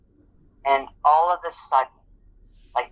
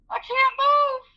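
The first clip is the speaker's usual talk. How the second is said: much higher, tearful wail; crying; slower than usual. Retold or imitated. Injured worker tells her boss she can't move, crying. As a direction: plead through tears. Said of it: "I was crying".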